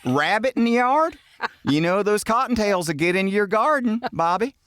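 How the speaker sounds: hammed-up Southern accent. Teasing Bobby about cottontails in the garden, high mock Southern accent. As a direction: gossip like a high-voiced Southern neighbor. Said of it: "since we were talking like that".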